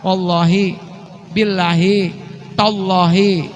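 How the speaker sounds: Wallahi, billahi, tallahi said slowly with Arabic sounds; Arabic oath forms. Shown as a demonstration. (ucapkan Wallahi, billahi, tallahi dengan lafal Arab)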